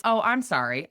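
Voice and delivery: imitating a tipsy ex apologizing; mock flustered apology. Ex's apology retold.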